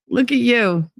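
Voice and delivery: high doting coo. Real, not acted. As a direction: gush over them fondly. Cooing at viewer, then repeated.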